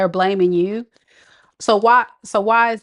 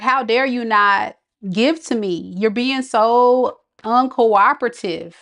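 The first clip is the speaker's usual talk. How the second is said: put-on whiny grown child; 4 semitones higher, slower than usual. Reader voicing ex as a grown child, slow whiny complaint. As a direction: whine like an entitled kid. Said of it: "like a grown child".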